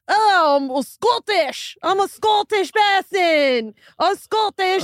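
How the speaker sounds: put-on Scottish accent. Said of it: "I could do Scottish".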